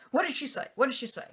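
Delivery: ex-husband frantically asks about son, mock panic; imitating panicked ex. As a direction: repeat it like he's freaking out. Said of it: "he's like freaking out".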